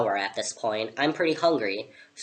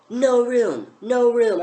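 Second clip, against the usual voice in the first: high-pitched imitated shouting; mock scream; 8 semitones higher, 5 dB louder, slower than usual. Tea party pair turn away a newcomer, high mock scream. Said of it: "they scream at me".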